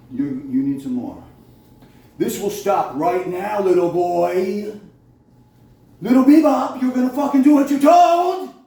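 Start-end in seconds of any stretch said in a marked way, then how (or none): 2.2-4.8 slow, deliberate threat, each word spaced; cold, drawn-out warning to the hacker; slow menace. Real, not acted. Ranting at whoever hacks his phone. 6.0-8.5 much higher and louder, a real furious yell; real shouted fury at the phone hacker. Real, not acted. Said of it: "Sorry, I'm a little angry".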